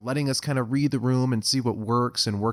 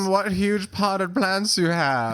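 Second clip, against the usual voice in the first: seductive voice; 8 semitones higher, 3 dB louder, much slower than usual. Pretend. Mock sultry comment on plants.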